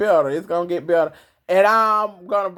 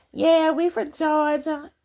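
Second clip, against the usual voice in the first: put-on high, tiny babyish voice; 8 semitones higher than usual. Retelling what a friend used to say online: imitating a little baby voice. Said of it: "my friend had a little baby voice".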